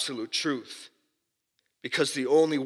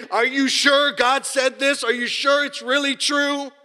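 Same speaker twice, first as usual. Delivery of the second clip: higher, sly doubting tempter; Satan tempting Eve; 10 semitones higher, 3 dB louder than usual. Retold or imitated. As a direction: plant doubt like the serpent in the garden. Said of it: "challenge Eve and to say".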